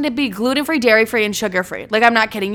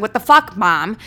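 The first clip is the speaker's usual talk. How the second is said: retold indignant protest; 4 dB louder than usual.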